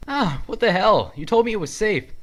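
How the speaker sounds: very high, loud indignant shout; angry yell. Acted. Link shouts at the villager who lied to him, outraged yell. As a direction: yell at the one who tricked you.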